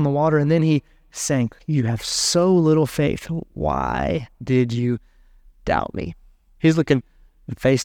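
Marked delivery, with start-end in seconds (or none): 1.7-6.1 grave rebuke. Acted. Jesus face to face with Peter, slow grave rebuke. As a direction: let the question fall slowly, with pauses.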